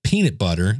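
PEANUT BUTTER with popped P and B; popping plosives. Shown as a demonstration. Podcaster showing listeners bad mic technique, "peanut butter" with popped plosives. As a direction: puff air into the P of "peanut". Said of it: "trying really hard to make plosives".

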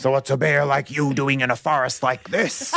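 lightly put-on bear chat-up voice; pirate-like bear. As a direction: flirt like a bear with a touch of pirate. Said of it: "I didn't know bears sounded like pirates".

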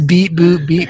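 lightly voiced flat beeps; robot beeps. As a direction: say beep boop almost plainly. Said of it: "she apparently says".

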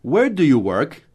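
teacher's tune demo, peak on "Where"; English question intonation. Shown as a demonstration. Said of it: "Repete com essa entonação".

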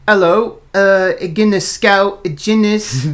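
high, slow picture-book elephant; goofy elephant. Pretend. Dad reading the label as the book's elephant, goofy. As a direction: play a goofy, bespectacled cartoon elephant. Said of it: "the elephant would be like".

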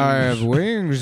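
slow, proud monster voice; gargoyle voice. Pretend. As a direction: announce it slowly like a gargoyle.

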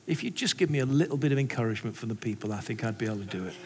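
low, soft, understated confession; tearful conviction. Retold or imitated. Pastor confessing his morning prayer, understated conviction. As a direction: imitate a moved man, quiet and dropping away. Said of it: "it's tears of conviction".

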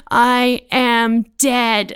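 slow, loud, word-by-word declaration; mock-solemn brother on a bad trip; stoned brother. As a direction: announce it gravely, stretching every word. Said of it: "my brother's just like".

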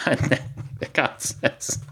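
real laugh swallowing the words; breaking into laughter. Real, not acted. Storyteller cracking up at his own joke, laughing. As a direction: corpse softly mid-narration, nearly voiceless.

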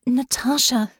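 tender urgency; gentle but urgent. A narrator's reading. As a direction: call gently to someone in a nightmare. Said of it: "making her voice gentler but no less urgent".

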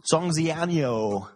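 Songjianyo, drawn out very slow; Songjianyo, stretched and unsure; mangled pronunciation. Shown as a demonstration. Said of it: "worst at pronouncing shit".

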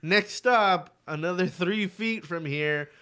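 slow, drawn-out stop announcement; mock a tediously slow conductor; train announcer imitation. Man mimicking train stop announcements, mock announcer.

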